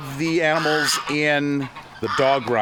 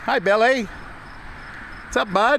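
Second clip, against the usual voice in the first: pet talk; 11 semitones higher than usual. Real, not acted. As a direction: chirp hello to the animal. Greeting farm animal.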